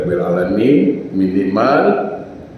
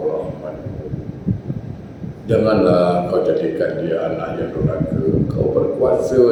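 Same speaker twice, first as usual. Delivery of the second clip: mother's pleading prayer; 4 semitones lower, 4 dB quieter than usual. Acted. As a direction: pray softly as a worried mother for her children. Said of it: "aku ngadu dengan Kau sebagai mak dia". (doa seorang ibu yang merayu dengan perlahan)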